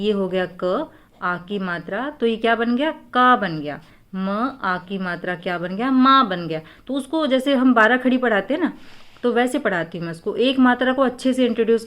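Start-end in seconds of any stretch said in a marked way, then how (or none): 0.0-6.6 put-on teaching a child syllables. Shown as a demonstration. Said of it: "उसको ऐसे बताती हूँ".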